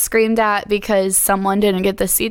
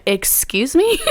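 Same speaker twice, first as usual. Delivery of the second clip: higher-pitched, taken-aback retort; affronted question; 5 semitones higher, slower than usual. Retold or imitated. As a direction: retell an offended comeback. Retold indignant reply to insult.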